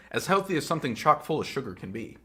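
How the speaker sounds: laughing. Real, not acted. Laughs at own joke.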